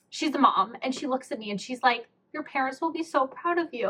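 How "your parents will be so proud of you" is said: high, gentle imitated mom voice; tender reassurance. A mom encouraging a nervous stranger, tenderly. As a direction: lightly mimic a heartfelt reassurance.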